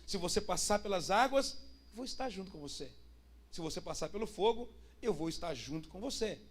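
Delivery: lightly acted divine promise, low and soft; a touch of calm tenderness; gentle reassurance. Voicing God's promise of presence.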